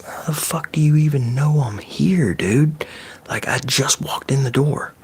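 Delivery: high-pitched incredulous retort; acted bafflement. Worker just walked in and got spotted, acted bafflement. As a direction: ask it high, in mock disbelief.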